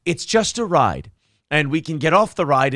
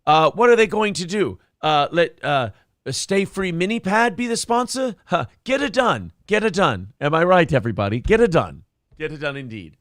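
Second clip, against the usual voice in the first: hammed-up club comic working the crowd; mock standup delivery; cheesy comic voice. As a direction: punch each line like a bad comedian. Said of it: "now you're just doing his voice".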